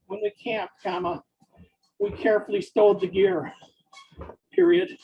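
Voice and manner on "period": usual speaking voice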